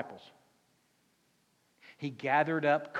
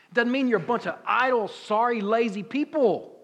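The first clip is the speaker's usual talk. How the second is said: fiery preaching; 7 semitones higher, 8 dB louder than usual. Real, not acted. Preacher rising to a climax.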